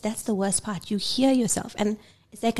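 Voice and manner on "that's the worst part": ordinary talk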